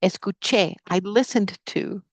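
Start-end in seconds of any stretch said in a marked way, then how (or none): 0.0-0.8 Escuché with the final "ché" stressed; stress on last syllable. Shown as a demonstration. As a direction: model Escuché, landing on "ché". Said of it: "you stress that last syllable".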